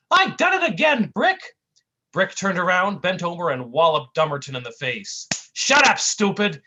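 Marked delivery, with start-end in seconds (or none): 0.1-1.6 high, loud goofy cartoon cry. Fallen sidekick calling to his partner, goofy high cry. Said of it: "Dummerton cried from the ground". 5.5-6.6 slow, loud gangster snap; snapping. Acted. Tough guy scolding his clumsy partner, loud snap. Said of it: "snapped Brick".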